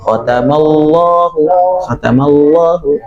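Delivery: "khatamallahu" slow, with long heavy double L; lam tebal. Shown as a demonstration. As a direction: hold the dark L inside "khatamallahu". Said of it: "udah mengucapkan huruf Allah". ("khatamallahu" dengan lam tebal dan panjang)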